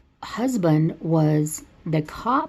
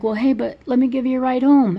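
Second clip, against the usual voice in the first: Hubie voice; 7 semitones higher, 5 dB louder than usual. Retold or imitated. Hubie voiced in retold movie.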